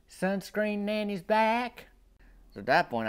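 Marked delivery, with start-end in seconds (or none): 0.1-1.9 coaxing granny. Retold or imitated. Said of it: "she shakes it and says".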